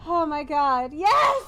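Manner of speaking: choked-up shout of joy; almost crying with relief; overjoyed, near tears. Real, not acted. Overwhelmed after the win.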